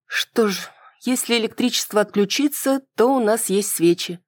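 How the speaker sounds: повыше, с улыбкой, скрывая тревогу; старайся звучать спокойно сквозь лёгкое беспокойство; беспокойство под улыбкой. A narrator's reading. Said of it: "прикрывая улыбкой своё беспокойство". (с напускным спокойствием)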